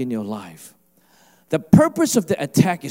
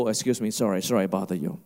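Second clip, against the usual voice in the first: softer, timid mock apology; mock apologetic; 10 semitones lower, 6 dB quieter, faster than usual. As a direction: act meekly sorry to bother them. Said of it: "Did he go".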